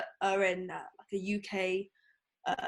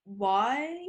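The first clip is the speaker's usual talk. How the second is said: puzzled why, rising at the end; confused; much slower than usual. Retold or imitated. Security questioning a fifteen-year-old girl photographer, confused. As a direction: imitate a baffled security guard. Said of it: "looked at me really confused".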